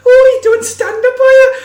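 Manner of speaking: loud, high-pitched Scouse woman impression; exaggerated Scouse, nosy and loud; mock Scouse accent. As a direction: shout it in a put-on Scouse squawk. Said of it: "Is that your Scouse accent?".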